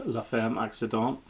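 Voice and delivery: song title said with a jokey French accent, nasal on the last syllable. Shown as a demonstration. Vlogger naming the song for viewers, in mock French accent. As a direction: put on a French accent for the song title, nasal ending. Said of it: "My French accent".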